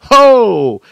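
a sudden high, loud cry of fervor; fervent shout. Real, not acted. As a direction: let it burst out of you. Preacher's burst of fervor.

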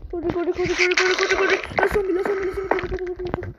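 high, loud frantic shouting. Real, not acted. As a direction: yell in full panic. Zombies chasing in game.

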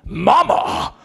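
high, loud panicked calls; terrified cry. Acted. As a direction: wail for your mother in terror. Terrified character cries out.

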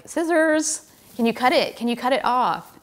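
begging them to stop pulling the jersey; urgent plea. Retold or imitated. Pleading nurse to cut jersey.

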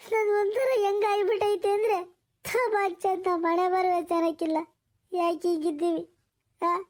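acted despairing wail, mildly tearful. Woman asking the older woman why she should live, tearful despair. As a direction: lament with sobs between phrases. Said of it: "ಅಳ್ಬೇಡ, ಸುಮ್ಕಿರು".

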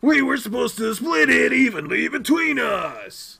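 high, loud, indignant outburst; acted panicked objection; shocked protest. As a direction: blurt it out in alarm, rising to a shout. Character learns he must pay.

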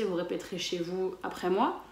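ordinary talk, nothing marked

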